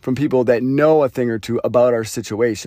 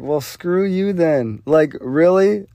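defiant retort; 5 semitones higher than usual. Retold or imitated. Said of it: "I guess my ego".

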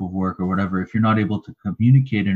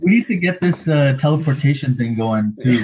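playful excitement; 5 semitones higher than usual. Pretend. Joking about teleporting the water.

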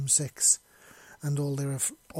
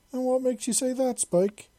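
giggling; 11 semitones higher, 5 dB louder than usual. Acted. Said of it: "she said in between giggles".

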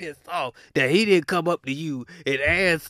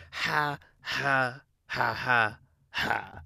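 imitated laugh; 2 semitones lower, 4 dB quieter, much slower than usual. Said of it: "They're going".

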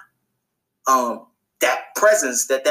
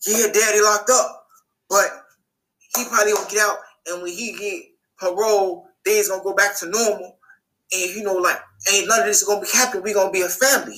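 lightly voiced young boy, a bit higher; higher, mild little-boy voice; hint of a hopeful little boy; 6 semitones higher than usual. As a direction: play the boy who misses his daddy. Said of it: "He like".

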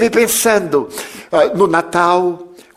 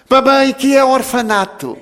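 put-on child voice; 7 semitones higher than usual. Boy asks what orphanage is.

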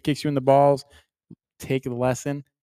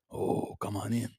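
mock Asian accent; 4 semitones lower, 9 dB quieter, slower than usual. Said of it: "the Harambe sounds kinda Asian".

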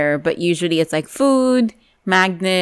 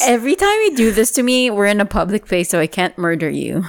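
mock angry mom; 5 semitones higher than usual. Friend voices mom's threat.

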